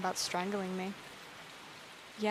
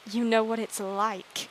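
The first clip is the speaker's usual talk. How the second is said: bitter echo; 6 dB louder, slower than usual. Acted. Bitter echo of Alejandra's words.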